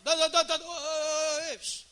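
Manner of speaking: loud, high mock-quarrel babble. Preacher mimics a spouse talking over the other, loudly. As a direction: shout gibberish over someone, mimicking an argument. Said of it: "o outro começa a falar mais alto".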